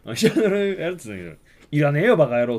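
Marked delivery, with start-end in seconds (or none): 1.7-2.6 gruff refusal. Retold or imitated. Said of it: "っつって。".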